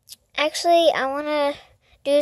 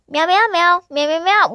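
light, higher cat imitation; lightly voiced meowing; 3 semitones higher than usual. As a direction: meow like a chattering plush cat. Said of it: "this is what Foxy hears".

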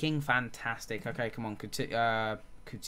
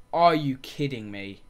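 louder disbelief; 8 dB louder, slower than usual. Real, not acted. Repeats it after a pause.

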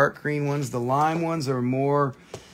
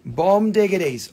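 louder, higher, punchy repeat; hyped echo; 4 semitones higher, 4 dB louder than usual. Real, not acted. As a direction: throw it back hyped up. Echoes it with more energy.

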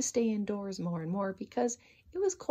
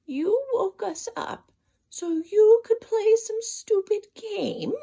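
much higher, much louder indignant squirrel; angry shout; 12 semitones higher, 7 dB louder, slower than usual. Acted. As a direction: snort it out, outraged at the rabbit. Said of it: "he shouted with a puff and a snort".

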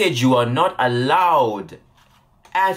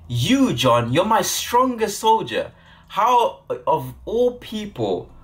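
higher, scoffing incredulous leader; mocking disbelief; 5 semitones higher than usual. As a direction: laugh off his weakness in disbelief. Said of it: "He laughed in his face and said".

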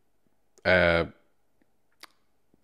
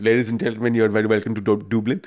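put-on a faint, half-hearted Dundrum accent on a pilot's welcome; lightly voiced Dundrum pilot announcing the landing; bad Dundrum accent. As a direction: barely shift into a Dundrum captain's voice. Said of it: "it's a terrible Dundrum impression".

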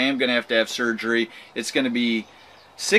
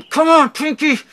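loud, high strained exhortation; straining urging; 13 semitones higher, 7 dB louder than usual. Retold or imitated. Man willing his pinky to move, straining urging. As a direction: urge it on, pitched way up.

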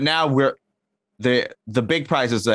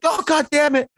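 mock frustrated. Everyone mad at the crying contest, in high mock exasperation. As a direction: throw up your hands in hammed-up annoyance. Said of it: "everyone gets mad".

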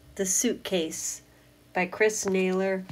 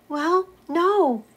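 much higher, louder hedging; high doubtful no; 11 semitones higher, 6 dB louder than usual. Acted. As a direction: correct them gently.

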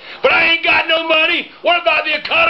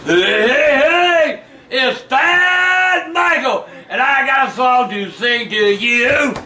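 slow taunting yell; much slower than usual. Real, not acted. Drunk mock serenade, taunting.

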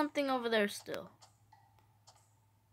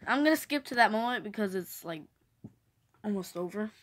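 hiccups; 3 dB quieter, faster than usual. Real, not acted. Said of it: "Sorry, I have the hiccups".

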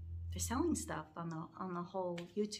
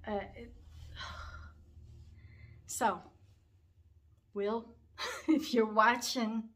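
slow, louder, sob after the name; choked, halting address; tearful; 4 dB louder, slower than usual. Real, not acted. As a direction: speak to the departed through tears. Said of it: "it's still hard for me to talk about".

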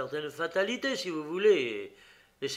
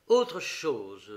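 abrupt louder switch; brusque; 7 dB louder than usual. Acted. Detective springs his trap, brusque change of subject. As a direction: cut in sharply. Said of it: "reprit-il brusquement".

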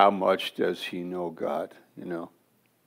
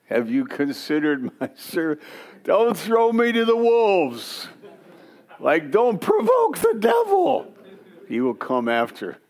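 very high, loud, frantic pleading cry; panicked Job; 12 semitones higher, 4 dB louder than usual. Pretend. Job begging God not to show him to Satan, very high and frantic. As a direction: beg God not to point you out, shrill with alarm. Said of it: "And Job could say".

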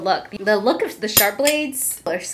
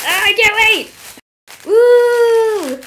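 loud, high-pitched excited shouting; thrilled high whoop; excited squeal; 12 semitones higher, 10 dB louder, much slower than usual. Real, not acted. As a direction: squeal it, bursting with anticipation. Thrilled while opening the package.

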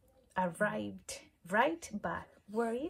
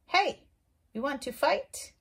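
high, loud, cheeky challenge; grouchy ladybug voice; 6 semitones higher, 7 dB louder than usual. Acted. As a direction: pick a fight in a squeaky bug voice. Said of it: "the grouchy ladybug said".

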